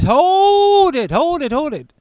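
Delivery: loud, high, hold it repeated; frantic ex. Retold or imitated. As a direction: stop them in panic. Ex frantically stopping them.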